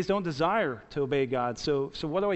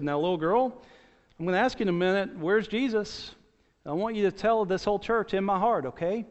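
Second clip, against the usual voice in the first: mock preacher; 4 semitones higher than usual. Preacher voiced in a story.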